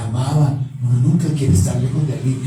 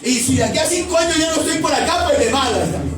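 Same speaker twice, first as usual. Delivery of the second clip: careless believer; 9 semitones higher, faster than usual. Pretend. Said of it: "Y usted dice".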